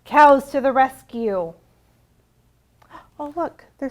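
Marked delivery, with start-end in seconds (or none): 0.0-1.5 loud ringing call of the title; refrain called out. Acted. Librarian calling the refrain to the children, loud. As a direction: call it out for the kids.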